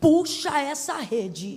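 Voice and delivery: firm, commanding, authoritative voice. Showing a group what to say to the person beside them, commanding imperative tone. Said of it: "numa impostação de voz de caráter imperativo".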